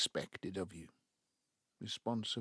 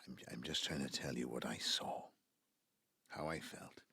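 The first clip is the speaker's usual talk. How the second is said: hushed, almost whispered explanation; quiet and defensive; 7 semitones lower, 6 dB quieter than usual. Acted. Father explaining himself to his grown children, hushed. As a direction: justify yourself in a low voice.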